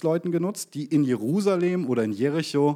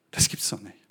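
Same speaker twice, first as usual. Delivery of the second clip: disbelief; 7 semitones lower, 5 dB quieter than usual. Acted. Preacher voicing disbelief.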